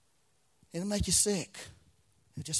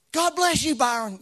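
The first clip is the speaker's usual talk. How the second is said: a quick, much higher mock of a fast-talking prophet; imitating Bobby Conner; 12 semitones higher, 10 dB louder than usual. Pastor imitating the prophet's note to the church, higher and quick. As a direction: toss off his greeting in his rushed way. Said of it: "that's how he would say it".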